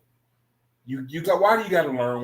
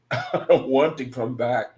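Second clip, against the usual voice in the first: laughing. Retold or imitated. Repeats own quote while laughing.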